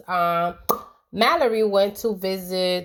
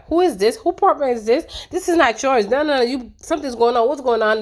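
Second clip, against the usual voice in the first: suspicious mom; 4 semitones higher, faster than usual. Retold or imitated. Mother voiced, suspicious at apartment.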